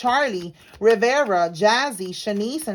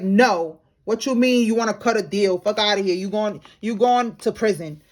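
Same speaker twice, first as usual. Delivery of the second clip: louder, dismissive mock feds; a cop laughing off a snitch's offer, louder; feds' blunt refusal; 3 dB louder than usual. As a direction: shut the deal down hard and scornful. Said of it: "They're like".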